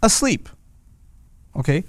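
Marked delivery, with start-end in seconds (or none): 0.0-0.5 slow emphatic. Shown as a demonstration. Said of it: "They'll say".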